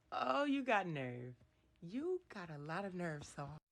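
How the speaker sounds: sassy scolding. Real, not acted. Scolding Saul directly.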